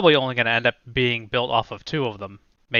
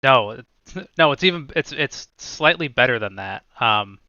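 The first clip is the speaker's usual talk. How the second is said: talking with food in mouth; words around a bite of dinner; chewing while talking. Real, not acted. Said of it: "sorry, I'm also eating dinner".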